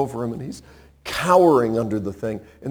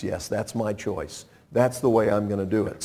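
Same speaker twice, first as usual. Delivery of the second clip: calm divine assurance; 6 semitones lower, 7 dB quieter than usual. Acted. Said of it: "When God says".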